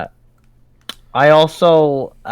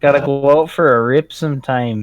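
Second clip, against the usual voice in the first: slight Canadian accent on rip; a hint of Canadian speech. Real, not acted. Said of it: "I just heard your Canadian accent come out".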